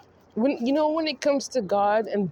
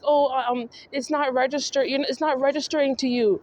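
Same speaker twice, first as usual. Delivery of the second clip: mock Justin; 4 semitones higher than usual. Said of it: "are you trying to say".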